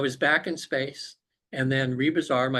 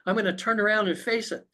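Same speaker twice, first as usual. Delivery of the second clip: acted resolve; 8 semitones higher than usual. Acting out resolve to face monster.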